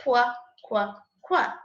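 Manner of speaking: short, separate "kwa" syllables; teacher sounding out "kwa"; letter sound demo. Shown as a demonstration. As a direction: say "kwa" as the sound of Q, each one on its own. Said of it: "the sound that Q makes is".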